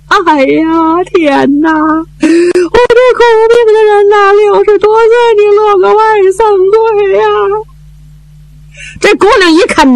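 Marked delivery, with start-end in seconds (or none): 0.1-7.2 slow drawn-out mock lament; a hint of a keening widow; wailing widow. Old widow laments her dead husband, slow mild wailing. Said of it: "哇的一声就哭出来了".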